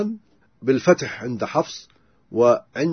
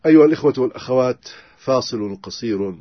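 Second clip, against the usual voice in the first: brisk announcement; 4 semitones lower than usual. Real, not acted. Announcing a short break.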